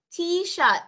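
"T-shirt" pitched high, ending on a puffed T; high, careful correction "T-shirt"; final T released. Shown as a demonstration. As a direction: sound the last T in "T-shirt". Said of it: "âm th của con đâu?".

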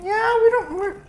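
high mock-casual self quote; imitating herself. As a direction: toss it off lightly. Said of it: "And I'm like".

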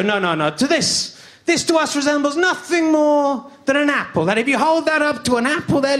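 mock French objection; French accent. The French refusing the word potato, in a French accent. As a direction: play the French, politely refusing in accented English. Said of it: "And the French go".

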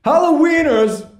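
loud, high theatrical impression; Christopher Walken. Slam poet announcing his poem, Christopher Walken impression. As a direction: announce it big in an exaggerated celebrity impression. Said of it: "Christopher Walken voice".

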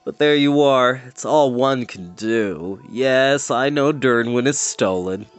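slow, mournful, resigned voice; gloomy sighing creature. Acted. Melancholy creature to the girl, sighing slowly. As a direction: sigh it all out like a born pessimist. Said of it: "Gwistle sighed".

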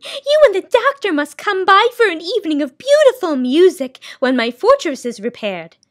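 high, loud gracious lady; high fairy-tale keeper, pleased; sound keeper voice. Acted. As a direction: invite them sweetly in a high voice.

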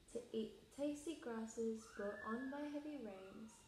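storybook read-aloud; reading to children. Acted. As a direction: read it like group story time. Reads picture book aloud.

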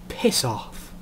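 put-on quiet sullen girl's voice, dropping at the end; a sulky girl pushing him away softly; quiet, sullen piss off; sullen brush-off. Upset girl tells him off.

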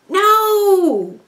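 firm no. Acted. Refusing feet on bed.

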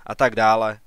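first of two scornful "a tak dále". Acted. Father waves off son's report.

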